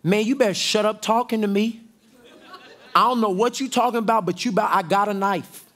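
Peter's fast threat. Acted. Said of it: "But Peter said".

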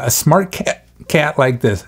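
hiccups breaking the words; talking through hiccups; hiccuping. Real, not acted. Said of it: "I got the hiccups today".

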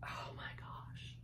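slow, breathless whisper. Real, not acted. Vlogger marvelling at the soft scarf, whispering slowly. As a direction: hush it out slowly as you feel the scarf. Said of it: "It makes me want to whisper".

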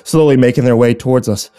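subdued, measured storytelling after the climax; grim story narration. A narrator's reading. Narrator after Philip's death, grim narration.

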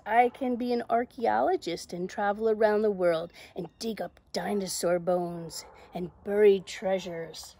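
loud, animated storybook reading; confident Zoe. Acted. Zoe ignoring the voice and dreaming aloud, confident. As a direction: announce a big dream with confidence. Reads Zoe's plans.

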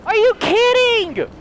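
high, loud disbelief; shocked yelling. Real, not acted. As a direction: shout in disbelief, high and fast. Shocked at enemy in basement.

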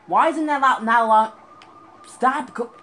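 high, loud outraged shouting; furious yell. Real, not acted. Gamer raging at the game, furious yell. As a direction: yell in disbelief.

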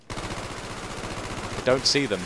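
slow hushed whisper, barely voiced. Real, not acted. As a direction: breathe it out slowly so the enemy can't hear. Creeping up on a nearby enemy.

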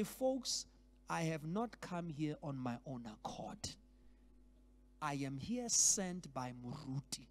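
humble, gentle delegate. Pretend. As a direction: speak modestly for the absent pastor, almost whispering. Modelling a humble delegate's greeting.

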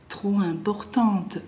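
"importante" ending on a sounded t; final E added. Shown as a demonstration. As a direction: finish "importante" on an audible t. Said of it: "Le agrego la E final". ("importante" con la t final pronunciada)

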